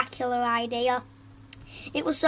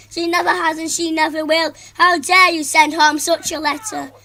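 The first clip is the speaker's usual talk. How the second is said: loud, higher indignant scolding; outraged mother; 3 semitones higher, 7 dB louder than usual. Acted. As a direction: scold the teacher furiously.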